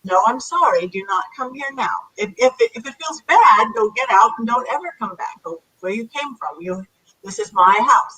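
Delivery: firm parent telling a spirit to leave; commanding teacher voice, no anger or fear; a lightly voiced stern parent ordering it out; stern authority. Shown as a demonstration. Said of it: "You wanna say it like you're a parent or like you're authoritarian, like you're a teacher".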